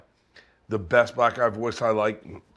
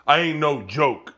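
slow, a light swaggering rap voice; a rapper's swagger. Retold or imitated. Showing friends a rapper's voice, a light slow swagger. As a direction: lip up, cocky and slow. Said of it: "old school black dude".

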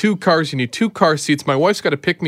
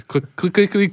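imitated keyboard clacking; 2 semitones higher than usual. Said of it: "clacking all over the keyboard".

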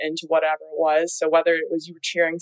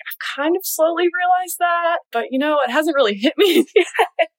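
higher, laughing as she answers; laughing reply; 10 semitones higher than usual. Retold or imitated. Answering her dad, high and laughing. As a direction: giggle through the answer. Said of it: "And I was like".

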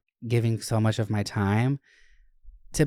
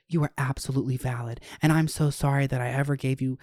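calm supportive friend; 2 semitones higher than usual. Retold or imitated. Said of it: "the friend's like".

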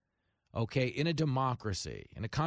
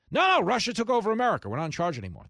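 high, fast, louder mock panic; mocking quote; 6 semitones higher, 5 dB louder, faster than usual. Commentator mocking the Russia story, in frantic mock panic. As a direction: play the hysterical believer.

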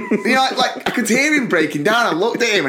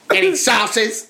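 slow drawn-out bored question; bored server; 6 semitones higher, much slower than usual. Retold or imitated. Imitating the bored server asking about sauces, slowly. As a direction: drag it out like it's an effort.

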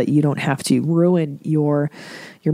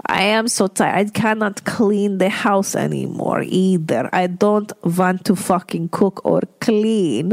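tired mother; 2 semitones higher than usual. Retold or imitated. Imitating tired mother's complaints.

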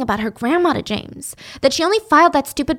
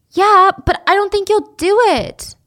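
mock doubtful; 8 semitones higher, 6 dB louder than usual. Teasing James about killing.

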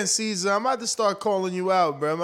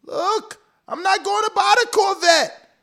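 higher, pleading mock argument; pleading husband; 5 semitones higher than usual. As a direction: explain yourself to your wife. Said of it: "you gotta tell, like".

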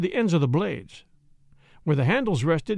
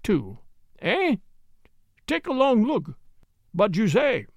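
put-on German accent; 2 semitones higher than usual. Jan's hanging logic, German accent.

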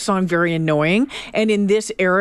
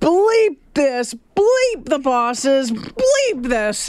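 raised, drawn-out angry chant; fired-up rant; 6 semitones higher, much slower than usual. Retold or imitated. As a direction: punch each bleep hard. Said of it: "he goes on to say".

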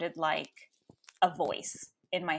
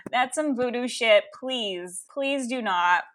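raised, emphatic mock pleading; retold exasperated protest; 5 semitones higher, 6 dB louder than usual. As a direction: protest loudly, as if begging mom to stop. Acted protest against mother's Reiki.

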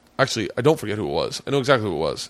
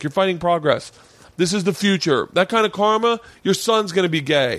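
higher-pitched, indignant lecture; mock righteous scolding; 6 semitones higher than usual. Defending gay friend to heckler, mock righteous scolding. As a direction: take a stand, playing the crusader.

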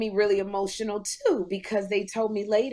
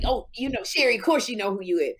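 mock self-important; faster than usual. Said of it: "I'm not trying to be like".

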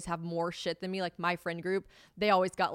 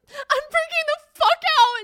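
very high, loud drawn-out shriek; retold meltdown, yelled at full tilt; panicked yelling; 13 dB louder, slower than usual. Confessing money panic to a friend by phone, shrieking.

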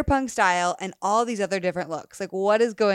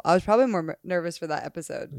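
stutter; 2 semitones lower, faster than usual. Real, not acted. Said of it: "you're just stuttering talking about it".

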